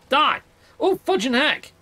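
high, loud cry as he strikes; battle shout. Real, not acted. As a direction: yell it like a war cry. Attacking the creature.

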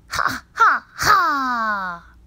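high, loud witch laugh; mean witch cackle. Acted. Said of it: "in a mean witch voice".

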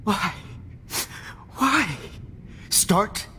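sudden sneering outburst; mocking yell. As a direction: throw her words back at her, shouting. Mocks Max's question, then snaps.

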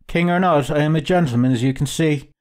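mildly indignant, insistent self-defence. Acted. Traveller insisting to the recruiter he is a gentleman, indignant. Proud reply to sneering recruiter.

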